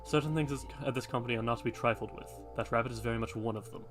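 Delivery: a hint of a solemn old guardian; hooded man voice.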